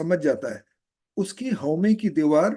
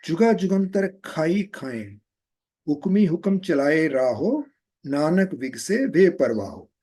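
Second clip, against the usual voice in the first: slow chanted gurbani recital; scripture recitation; 3 semitones lower, slower than usual. Acted. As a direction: recite the verse slowly, devotionally. Teacher recites Japji verse.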